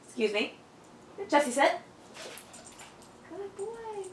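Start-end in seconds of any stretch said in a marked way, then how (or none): 3.3-4.0 happy praise. Real, not acted. Praising dog after command.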